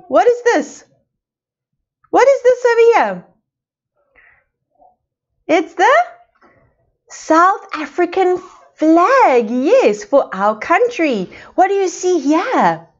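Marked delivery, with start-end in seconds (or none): 5.5-9.5 slow, clear teacher prompt; slow prompting answer. Shown as a demonstration. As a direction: stretch each word out slowly for small children. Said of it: "teacher models the answer".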